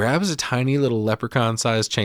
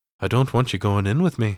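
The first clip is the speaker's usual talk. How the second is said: put-on light touch of a Scouse Liverpool accent. Speaker recaps a film scene, voicing the man's reply to her: kind of Liverpudlian accent. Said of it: "starts sounding kind of Liverpudlian when he goes".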